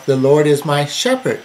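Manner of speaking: "shepherd" punched at the end; emphatic "shepherd" closing the sentence; stress on SHEPHERD. Shown as a demonstration. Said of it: "emphasize different words to bring out".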